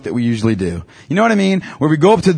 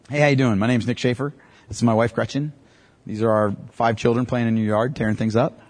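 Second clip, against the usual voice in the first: mock awkward intro; 2 semitones lower, 5 dB quieter than usual. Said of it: "I won't say it like that".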